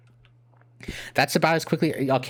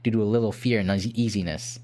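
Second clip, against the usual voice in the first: mock-solemn game ending narrator; ending narration; 3 semitones lower than usual. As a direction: narrate the sad ending gravely, slowing at the last words. Reads the game's ending text.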